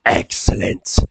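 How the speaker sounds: lightly voiced throaty old man; a hint of a groggy, ominous old master; Sir Quagmire. Old master asks visitors to step forward, slightly throaty aged voice. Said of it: "old, groggy, like, throaty voice".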